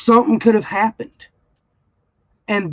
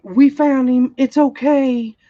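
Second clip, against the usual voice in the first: higher-pitched mock soothing; mock reassurance; 5 semitones higher than usual. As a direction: imitate a principal brushing off the worry. Mimics principal's breezy reassurance.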